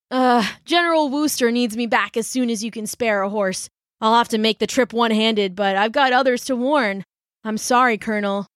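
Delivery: put-on young messenger. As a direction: plead for help from the colonel. Boy messenger voice.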